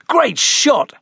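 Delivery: high-pitched cheer; cheering yell. Acted. Friends praising Charlie's throw, high cheering yell. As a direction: yell it like a whole group cheering. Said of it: "everyone yelled".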